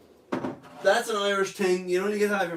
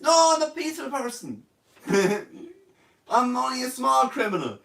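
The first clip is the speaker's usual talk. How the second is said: high, pleading voice of a petty crook; mock pleading suspect; 5 semitones higher than usual. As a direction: beg the officer to let you go.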